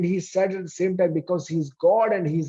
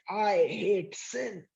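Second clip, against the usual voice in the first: restrained anger; 5 semitones higher, 4 dB quieter, much slower than usual. Acted. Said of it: "He's angry that sin is leading".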